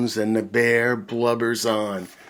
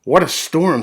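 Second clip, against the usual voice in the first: muttering mole; 6 semitones higher, 13 dB louder than usual. Acted. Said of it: "The mole mutters".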